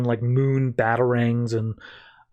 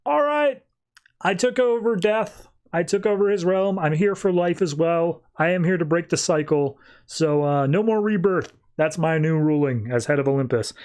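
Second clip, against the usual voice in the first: higher, grand tyrant declaring his rule; lightly voiced villain, high and proud; villain proclamation; 5 semitones higher than usual. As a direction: announce the new order like a conquering god. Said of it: "And he's just like".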